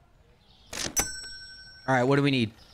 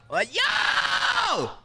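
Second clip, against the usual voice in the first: overwhelmed; 8 semitones higher than usual. Real, not acted. Overwhelmed by crowd.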